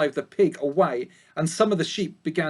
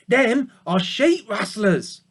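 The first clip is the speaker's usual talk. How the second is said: put-on slow, higher grim old ewe; old sheep voice; 4 semitones higher, slower than usual. A narrator's reading. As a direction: spell it out slowly like a worried old sheep. Ma explains slowly.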